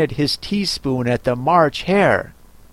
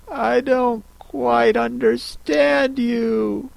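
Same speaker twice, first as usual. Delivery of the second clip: softer, slow, careful politeness; politely hiding her puzzlement; polite Alice; 9 semitones higher, 4 dB quieter, slower than usual. Acted. Alice, puzzled by the Hatter, answers politely and softly. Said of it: "as politely as she could".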